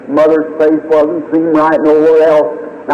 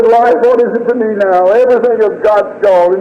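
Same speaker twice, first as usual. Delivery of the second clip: higher-pitched, anguished reliving of despair; despairing plea; 4 semitones higher than usual. Retold or imitated. Grieving father to the doctor, despairing. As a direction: plead as if all is lost. Despairing outcry at news of dying baby.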